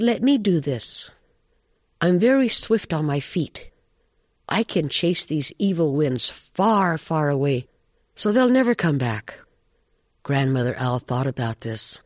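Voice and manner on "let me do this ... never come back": lightly voiced deer, higher pitch; volunteer keenly in a slightly higher voice; eager deer. Deer offers to chase the evil winds away, high and eager.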